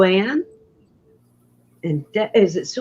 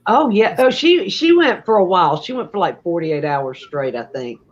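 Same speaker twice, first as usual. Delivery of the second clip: wheezy, sick-sounding voice. Real, not acted. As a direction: talk wheezy like you have pneumonia. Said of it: "I still sound like I got pneumonia".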